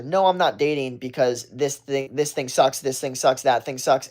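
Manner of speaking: a hint of sulky complaining; mildly defensive take. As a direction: list the gripes a little sourly. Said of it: "then you look defensive and insecure".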